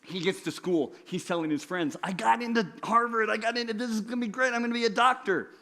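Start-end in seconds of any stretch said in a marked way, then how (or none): 2.0-5.5 quick, eager bragging rush; excited. Acted. Connor bragging to his school friends, fast and excited. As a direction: gush the news, tumbling over the words. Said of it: "He's so excited".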